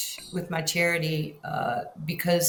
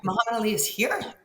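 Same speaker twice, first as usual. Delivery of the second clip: disbelief; 5 semitones higher than usual. Retold or imitated. Retold disbelief.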